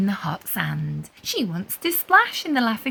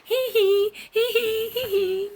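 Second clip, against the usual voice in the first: high playful giggles, fading; giggling; 10 semitones higher than usual. A narrator's reading. Anna laughing along with the waves, light giggles.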